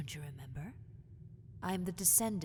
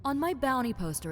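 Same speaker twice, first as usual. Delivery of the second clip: indignant; 6 semitones higher, 8 dB louder than usual. Acted.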